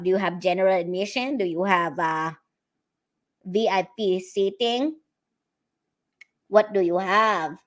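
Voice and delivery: prank-call voice as comedy hostess; mock hostess seating guests; put-on hostess greeting. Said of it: "do this voice when greeting".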